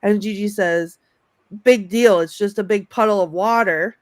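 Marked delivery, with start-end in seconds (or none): 1.6-3.9 unimpressed attitude. Retold or imitated. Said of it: "Love that attitude".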